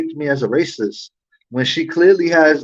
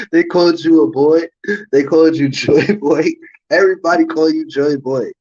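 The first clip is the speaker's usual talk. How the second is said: mocking laughter. Real, not acted. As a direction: rib her with a laugh. Mocking her nickname, laughing.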